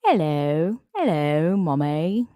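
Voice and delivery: meowed words with a swooping, rising end; talking-cat meow. Retold or imitated. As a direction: meow like a cat calling for its owner. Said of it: "That's exactly what his meows sound like".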